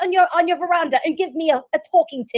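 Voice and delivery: amateur mock English accent; playfully imitated English accent; attempted English accent. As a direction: put on your best English accent. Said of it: "That was my best English accent".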